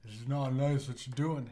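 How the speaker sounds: loud, mild Southern telling-off; Southern accent. Acted. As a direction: scold them simply with a hint of Southern. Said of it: "speaks in a southern accent".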